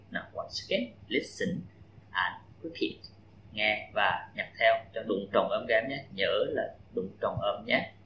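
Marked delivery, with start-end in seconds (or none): 0.1-5.6 soft, almost whispered instruction; quiet prompt. Real, not acted. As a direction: hush it to the class. Teacher prompting the class. (nhắc nhỏ nhẹ cả lớp nghe và nhắc lại)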